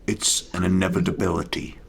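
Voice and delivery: mock menace aimed at Mister Anderson; a playful Agent Smith impression. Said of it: "I feel like Agent Smith from The Matrix".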